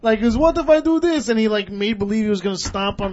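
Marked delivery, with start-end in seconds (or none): 0.4-1.3 loud, high mock threat; retold threat. Cabbie feints at the driver's car, imitated loud threat. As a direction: act out the cabbie's menacing question.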